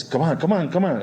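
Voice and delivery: imitated conductor egging on the singer; urging. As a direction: hurry someone along with repeated cues. Acts out conductor urging him on.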